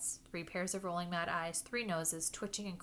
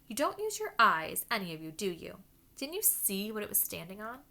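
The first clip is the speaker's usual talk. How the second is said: exasperated Hermione; 2 semitones higher, 5 dB louder than usual. Acted. Hermione scolding the boys.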